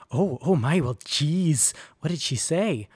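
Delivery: flustered nasal man's voice; lightly flustered, nasal and eager; high nasal voice. A narrator's reading. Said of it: "in his high, nasally voice".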